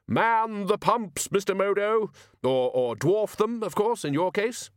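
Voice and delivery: Ridcully hailing the gardener at the pumps; booming orders. Acted. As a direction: bark out commands like a ship's captain. Ridcully giving orders to Modo.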